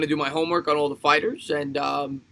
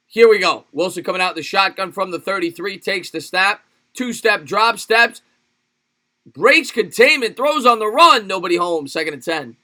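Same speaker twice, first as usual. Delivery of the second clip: play-by-play call; 3 semitones higher, 5 dB louder than usual. Pretend. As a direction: call a live play with rising excitement. Mock live game call.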